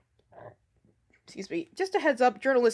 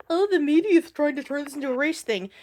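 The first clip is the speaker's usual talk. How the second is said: lightly mocking whine; mild mock moan; 3 semitones higher than usual. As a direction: imitate a complainer, slightly put-on. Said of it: "whine and bitch and moan".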